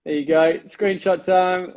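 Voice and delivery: words squeezed through teeth; talking through teeth. Real, not acted. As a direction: keep the jaw still. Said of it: "I'm talking through my teeth".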